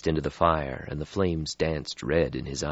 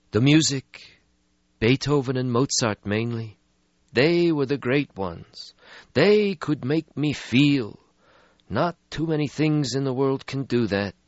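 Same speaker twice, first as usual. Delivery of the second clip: put-on weary old vampire; 9 semitones higher than usual. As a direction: sigh out an ancient regret. Stretsky voiced in story.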